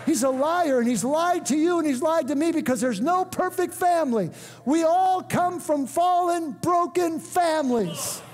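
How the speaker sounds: building preacher's proclamation; rousing sermon delivery, slowing as it builds; full-force preaching. Real, not acted. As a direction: proclaim it to the congregation, drawing out the key words.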